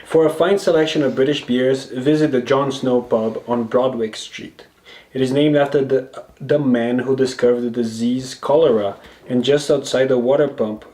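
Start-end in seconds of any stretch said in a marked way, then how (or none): 0.1-4.7 reading the sign aloud. Shown as a demonstration. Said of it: "read the, read the title".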